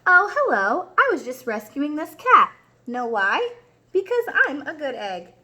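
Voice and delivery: bright, lively storybook reading; reading to children. A narrator's reading. Teacher reading The Good Egg to her class, lively. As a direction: read it big for little listeners. Reads picture book to class.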